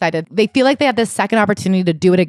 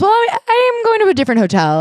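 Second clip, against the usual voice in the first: high, airy put-on mom voice; hammed-up careless mother; mock breezy mother; 13 semitones higher than usual. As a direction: excuse yourself brightly, up high.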